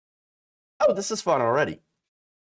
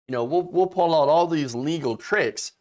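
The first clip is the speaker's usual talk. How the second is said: imitating Barr, rising to a shout; 2 semitones higher than usual. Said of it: "William Barr is like".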